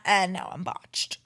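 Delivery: slow whispered punchline. Real, not acted. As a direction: whisper it slowly, deadpan.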